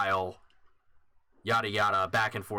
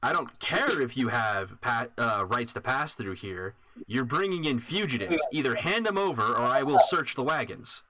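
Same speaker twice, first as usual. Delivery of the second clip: emphatic but barely raised shouting back; mild mock shout; 3 semitones higher than usual. Armored man answers the caravan matron, mildly mock-shouting. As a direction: play a restrained shouted demand. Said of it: "He's shouting back".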